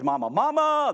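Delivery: high, loud insistent cry of mama; shrill little kid yelling for mom; loud child calling. Retold or imitated. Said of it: "just lobbing grenades".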